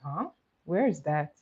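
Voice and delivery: mock puzzled question with a rising huh; baffled, lightly acted; puzzled reaction. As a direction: imitate people who have no idea. Voicing puzzled people asked about Sudbury.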